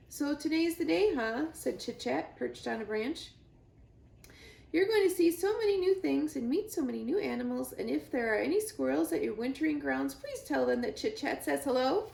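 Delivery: loud, high, excited squirrel chatter; chatty squirrel. Acted. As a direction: rattle on with squirrel glee. Squirrel character voice.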